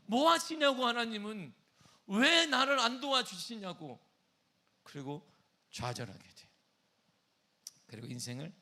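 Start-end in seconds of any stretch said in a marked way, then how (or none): 0.0-4.0 high, loud outcry at God; raised-voice indignant complaint; angry protest. Acted. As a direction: demand answers, hammering the "why". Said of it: "다윗은 지금 분노하고".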